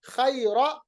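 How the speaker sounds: खैरा with only the first fatha; nun qutni reading. Shown as a demonstration. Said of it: "हम कैसे पढ़ेंगे".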